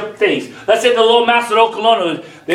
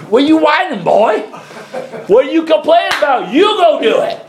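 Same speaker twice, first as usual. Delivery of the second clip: God scolding shout; 9 semitones higher than usual. Pretend. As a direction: bark it out like an impatient father. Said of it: "he go".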